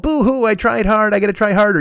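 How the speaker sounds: hammed-up blubbering like a kid; fake crying. Mocking own whining self.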